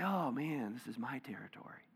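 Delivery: hushed, greedy whisper; mock territorial church voice, whispered; possessive whisper. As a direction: whisper it like guarding a treasure. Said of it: "to say".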